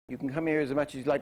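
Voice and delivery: quick, easy-going concession before the punch; soft accents. Shown as a demonstration. Teacher setting up the hard accent, light quick delivery. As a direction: run lightly through "as much as you like". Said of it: "two soft accents and a hard one".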